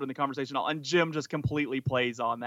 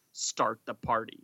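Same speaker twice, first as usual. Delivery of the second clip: very dramatic; 4 semitones lower than usual. Shown as a demonstration. Parent at a kid's party, mock-dramatic. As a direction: deliver it as a dramatic catchphrase. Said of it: "make a very dramatic".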